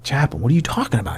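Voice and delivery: quick, restrained puzzled question; retold puzzlement. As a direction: ask the chaplain in mild confusion. First retold puzzled question to chaplain.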